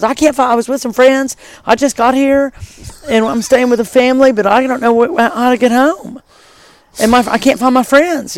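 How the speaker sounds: lost woman's plea. Retold or imitated. Acts out lost woman pleading for help.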